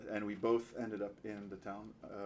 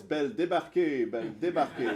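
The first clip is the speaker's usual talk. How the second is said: loud, raised voice telling her to leave; mock angry shout; 5 semitones higher, 10 dB louder than usual. Proud young man to the beggar girl, loud mock outrage. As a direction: throw the words out loud like a scorned suitor. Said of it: "So he says".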